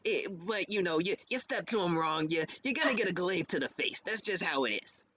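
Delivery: lightly voiced gruff turtle fighter; a hint of tough-guy roughness, heart in the right place; Langston, rough and gruff. Shown as a demonstration. Player demonstrating a Ninja Turtle-inspired fighter, a little gruff. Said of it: "little rough, little gruff".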